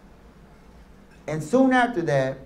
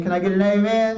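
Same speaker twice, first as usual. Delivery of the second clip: call for amen; 2 semitones higher, faster than usual. Real, not acted. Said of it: "I think I can get an amen".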